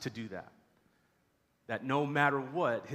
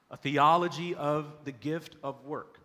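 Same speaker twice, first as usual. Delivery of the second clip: the series title rung out louder and slower; title repeated louder; 6 dB louder than usual. Shown as a demonstration. Preacher repeating the series title to the church, louder and slower. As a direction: proclaim "A Theology of the Gift of Work" a second time with more force.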